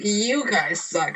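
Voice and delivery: put-on high, drawn-out drunken jeer; mock drunk taunt; wasted heckler. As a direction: imitate a drunk guy heckling, slowly. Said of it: "opens the door right wasted".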